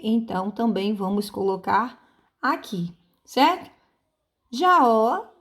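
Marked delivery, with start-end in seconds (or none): 4.5-5.3 Jaó with a long, rising Ó; stress on final syllable. Shown as a demonstration. Teacher showing pupils the strong syllable, final stress. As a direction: lean hard on the Ó of Jaó. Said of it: "a sílaba forte é ó".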